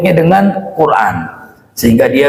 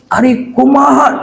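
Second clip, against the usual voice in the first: high, slow, bewildered cry; confused Sundanese pilgrim; 11 semitones higher than usual. Retold or imitated. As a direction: ask it lost and panicked, much higher. Jamaah Sunda bingung dipalak. (seruan bingung logat Sunda)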